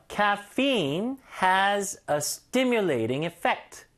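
Caffeine has a stimulating effect, read very slowly word by word; slow demo. Shown as a demonstration. Teacher slowly linking the whole sentence for learners. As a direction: link the words very slowly. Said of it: "그 이런 거 어떻게 연결하냐면요".

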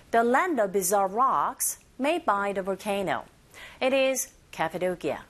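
slow model with buzzing z in "bizarre"; teacher slowly models the phrase; slow drill line. Shown as a demonstration. Teacher drills the phrase slowly for students to repeat. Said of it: "One more time".

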